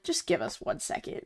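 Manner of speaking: hushed, rushed plea; whisper. Retold or imitated. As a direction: breathe it out like a stressed cashier. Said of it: "the guy taking our order is just like".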